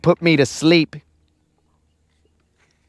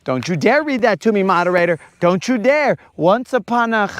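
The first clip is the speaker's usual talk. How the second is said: mock protest; 5 semitones higher than usual. Protesting being read to.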